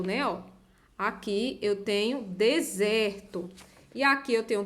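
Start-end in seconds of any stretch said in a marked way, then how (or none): 2.2-3.5 deserto slowly, middle "ser" drawn out; syllable-final R. Shown as a demonstration. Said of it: "eu tenho a sílaba com R".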